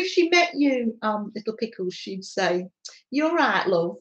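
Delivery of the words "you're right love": lightly imitated northern English accent, with chuckles; a playful, badly done northern English accent; mum's northern accent. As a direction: do your mum's northern English welcome, amused. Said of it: "terrible accent".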